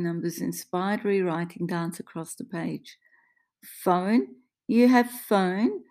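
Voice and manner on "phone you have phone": put-on slow, raised questions in an Italian accent; high, loud Italian-accented asking; thick Italian accent. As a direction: plead haltingly with an Italian accent. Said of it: "she asks in a thick accent".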